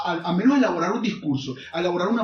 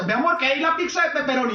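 lightly voiced Maracaibo waitress, pitched up; a singsong Zulian mi amor, a bit higher; sweet maracucha accent; 6 semitones higher than usual. A maracucha waitress offering pizza to a customer, higher, sweet Zulian accent. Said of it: "Y una maracucha".

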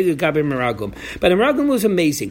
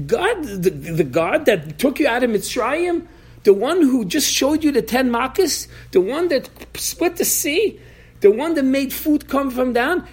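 mock yelling rebuke; 5 semitones higher than usual. Moshe berating the scouts, in a half-acted raised-voice scolding. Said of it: "Started yelling at them".

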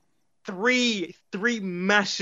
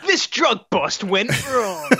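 laughing mock announcer; 4 dB louder, slower than usual. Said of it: "mock home video title".

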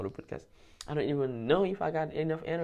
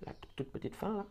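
whispered aside; 7 semitones higher, 6 dB quieter than usual. Real, not acted. Unvoiced aside.

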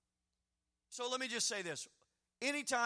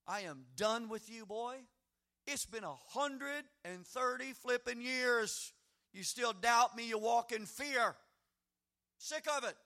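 mock fed-up God, higher and louder; hammed-up impatient God scolding a doubter; exasperated God; 4 semitones higher, 5 dB louder than usual. God pretending to lose patience with Jacob, mock exasperated. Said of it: "God did not say".

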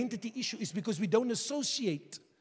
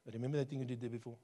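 taunting voice of the enemy; 9 semitones lower, 9 dB quieter, much faster than usual. Retold or imitated. Voicing the enemy's whisper.

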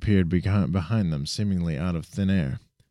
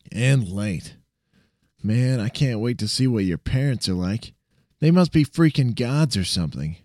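put-on higher, amused young sidekick; cocky friend voice; 4 semitones higher than usual. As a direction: tease him, impressed but playful. Sam's voice, teasing.

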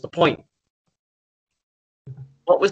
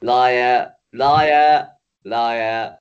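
mock accusation; 2 semitones lower, 5 dB louder, much slower than usual. Accusing the other in a mock quarrel.

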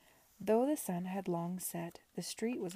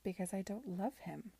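stubborn; 3 dB quieter than usual. Acted. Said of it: "Esther said stubbornly".

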